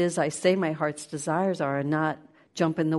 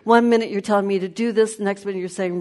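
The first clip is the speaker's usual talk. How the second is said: laughing mock rant; 4 semitones higher, 8 dB louder, faster than usual. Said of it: "you'd go".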